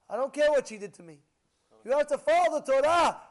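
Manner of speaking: loud, high, fast proclamation; preaching crescendo. Acted. Rabbi preaching respect for mother, rising loud. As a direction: build it into a thunderous declaration.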